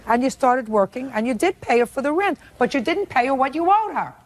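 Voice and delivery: high, biting sarcastic put-down; sarcastic scolding tv judge. Real, not acted. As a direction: scold him with dry sarcasm. Judge mocks defendant's excuse.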